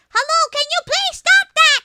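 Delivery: high, prim mock politeness; high sarcastic polite voice; mock polite request. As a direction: ask him nicely, sarcastically sweet. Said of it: "telling him".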